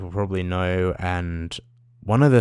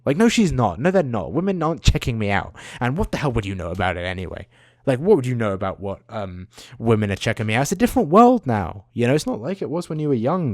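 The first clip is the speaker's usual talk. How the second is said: mock exasperation with mum; 3 semitones higher than usual. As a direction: argue back at mum, mildly exasperated. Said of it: "To my mum, I guess, is what I would say".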